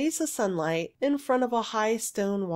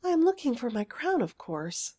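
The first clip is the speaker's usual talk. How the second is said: pouting; 2 semitones higher than usual. Acted. Girl hunts for her fallen crown, pouting. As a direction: say it through a little pout. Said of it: "she said with a pout".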